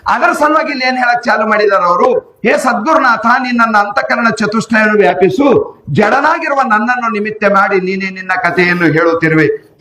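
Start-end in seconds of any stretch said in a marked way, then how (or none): 2.5-9.8 raised, rapt devotional plea to the guru; joyful prayer. Retold or imitated. A devotee praying to his guru, a touch of raised rapture. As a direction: offer the words up like a humble prayer. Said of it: "ಭಾರಿ ಆನಂದದ ಮಾತು ಹೇಳ್ದ".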